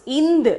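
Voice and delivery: "ind" as a brief n closing into d; short sound. Shown as a demonstration. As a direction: model "ind" with a short nasal. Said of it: "we have to pronounce ind".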